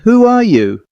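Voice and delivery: high, alarmed demand; frightened question. Acted. Woman confronting a strange child at her door, frightened high question. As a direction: ask it in a startled high voice.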